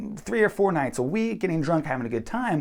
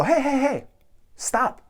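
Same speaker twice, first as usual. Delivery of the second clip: calling out to stop; 9 semitones higher, 4 dB louder, slower than usual. Retold or imitated. Groupmate calling the others out.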